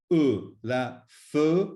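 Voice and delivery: "fe" with a muted French uh; unaccented e sound. Shown as a demonstration. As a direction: say "E" and "fe" as an isolated uh vowel. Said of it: "the first E is E".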